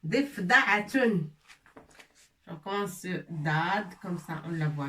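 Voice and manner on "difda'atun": Difda'atun spelled out slowly syllable by syllable. Shown as a demonstration. Teacher to class, slow syllable-by-syllable reading. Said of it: "Dif, da, avec fatha".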